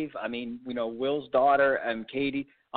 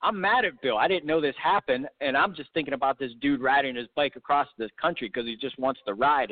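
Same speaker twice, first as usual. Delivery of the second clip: mock mad; 2 semitones higher than usual.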